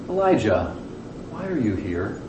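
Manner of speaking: soft, low and hushed, almost breathed; a still, soft voice of God asking Elijah; still small voice. Acted. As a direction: speak it gently as a quiet inner voice. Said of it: "in a very still voice in his heart".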